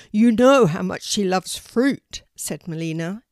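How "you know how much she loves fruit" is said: loud, insistent raven; defending a friend. Acted. Melina the raven defends Poppy, loud insistent voice. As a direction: stand up for her, loudly. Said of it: "defending Poppy".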